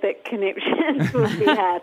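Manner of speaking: slow words broken by a laugh. Real, not acted. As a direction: laugh through the line. Laughing at the word conniptions.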